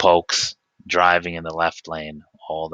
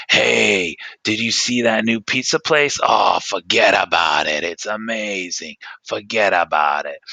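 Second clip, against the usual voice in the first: excited New Yorker. Retold or imitated. New Yorker raving to a friend about pizza, excited shout. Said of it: "when we talk about something really awesome".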